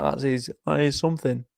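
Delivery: hushed whisper. Real, not acted. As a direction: whisper it in awe. Whispered aside about chat.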